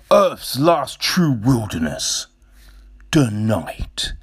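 mock-dramatic narrator, pause before "the night"; lightly hammed-up narrator reading janky copy; imitated documentary narrator. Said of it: "some of the copy that he's writing".

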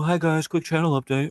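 peppy streamer channel intro; YouTuber intro. Retold or imitated. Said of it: "I'm like every YouTuber streamer".

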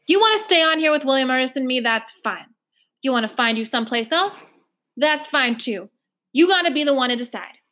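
a hint of Trotter hurrying on; lightly voiced foster mother. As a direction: let the child choose, brisk. Trotter offering Gilly a choice.

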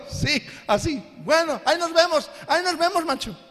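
mock cheerful see-you-later; laughing goodbye. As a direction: brush him off with a laugh. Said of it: "así predicamos".

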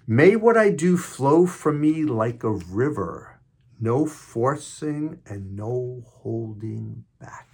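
lines drawn out, easing off at the close; meditation reading. Acted. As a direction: let the quote flow out slowly.

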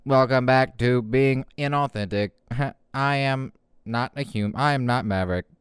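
flat robot voice. Pretend. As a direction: speak like a robot host. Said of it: "I'll just be a robot".

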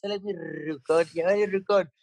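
"Rucón" with a hard rolled R. Retold or imitated. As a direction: roll the R in "Rucón" heavily. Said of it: "con la R marcadota".

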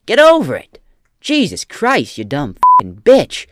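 loud, high, screaming tirade; mock furious rant. Parody guru screaming at a seller, loud high rant. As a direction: tear into her like a drill sergeant. Ranting parody of Gary Vee.

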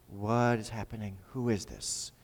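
a mild hint of an old man's terror; imagined fear. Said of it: "he's just fear".

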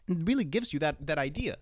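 breath running out at the end; squeezing out the last words on little air. Real, not acted. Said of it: "I'm running out of air there".

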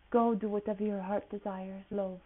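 a hint of Welsh and other accents blended; light mash-up of accents; mixed accents. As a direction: play a jumbled accent travel agent. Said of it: "five accents mixed into one or two sentences".

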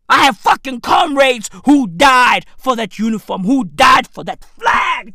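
loud, emphatic mock outrage; hammed-up righteous indignation; mock indignant veteran. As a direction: proclaim it like an offended soldier. Mock veteran outrage at stolen valor.

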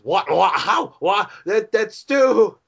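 high, stammering mock disbelief; bewildered. Man hit with news of his mushroom, bewildered. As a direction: stammer upward, drag out the last word. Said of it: "And he goes".

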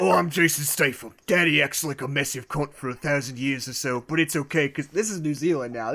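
put-on lightly done British accent, drifting off; mock British accent reading a bad review. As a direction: read it as a so-so Jason Statham British accent. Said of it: "I'll do it as Jason Statham".

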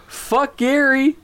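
high, drawn-out retold outburst; slow, high mock laughing cry; busting up laughing. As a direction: blurt it as if helpless with laughter. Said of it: "started busting up laughing".

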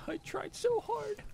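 lightly put-on bad British accent; a hint of a bad British accent, high and slow; mock British accent. Co-host teasing his own bad British accent, mock British accent. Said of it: "the other guy with the bad British accent".

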